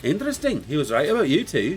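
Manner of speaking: hammed-up accent, pitched high; Mirror Master's accent. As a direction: put on the mysterious villain's accent. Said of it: "I'm not gonna do the accent".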